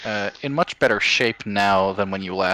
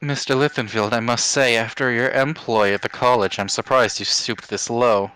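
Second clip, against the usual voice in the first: possessed. Acted. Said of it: "a demonic voice will kind of pop out".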